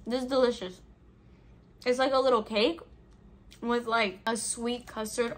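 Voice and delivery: chewing while talking; mouth full. Real, not acted. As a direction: talk through a mouthful of cake. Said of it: "I'm gonna be talking with my mouth full".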